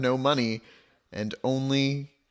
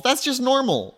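mock casual; 11 semitones higher, 5 dB louder than usual. Reassuring brother, mock casual.

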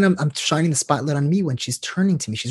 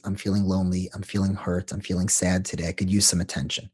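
vulnerable admission; 5 semitones lower, 4 dB quieter than usual. Retold or imitated. Voicing the hurt need under anger.

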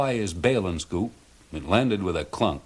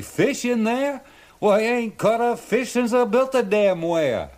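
much higher, put-on Down East fisherman voice; indignant old fisherman; 13 semitones higher, 4 dB louder than usual. A narrator's reading. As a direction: protest your innocence like a crusty old Mainer. Charlie voiced, arguing.

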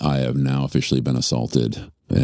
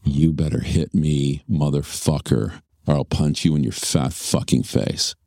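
retold threat. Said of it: "she says the big words".

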